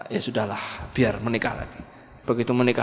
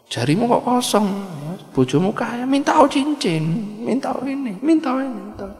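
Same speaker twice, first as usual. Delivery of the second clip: wheedling busybody; 8 semitones higher than usual. Acted. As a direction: tempt her to ask for rings. Busybody urges asking for rings.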